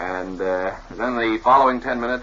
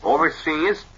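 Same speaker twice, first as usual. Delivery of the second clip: booming newsreel announcer; dramatic newsreel transitions; old newsreel; 3 semitones higher than usual. Shown as a demonstration. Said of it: "I use all sorts of connectives".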